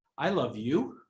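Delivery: skeptical, doubtful, half-questioning tone. Showing how tone changes a text message's meaning, saying it in a questioning tone. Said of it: "like I'm questioning it".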